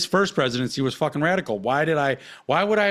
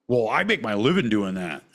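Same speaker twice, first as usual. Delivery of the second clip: mock tattoo artist; 4 semitones lower than usual. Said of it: "That's all you ever get out of fucking tattoo artist".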